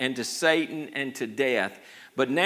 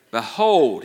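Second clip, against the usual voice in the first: loud proclamation; 6 dB louder than usual. Acted. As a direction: ring out Behold. Elder's proclamation in sermon.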